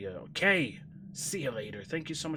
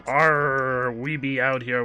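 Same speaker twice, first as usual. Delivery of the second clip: mock pirate talk, louder; a hint of a growly pirate; 6 dB louder, slower than usual. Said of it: "wants you to talk like a pirate".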